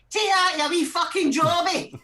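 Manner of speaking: high, drawn-out gamer yell; top of his lungs. Retold or imitated. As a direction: imitate an angry gamer bellowing. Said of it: "top of his lungs".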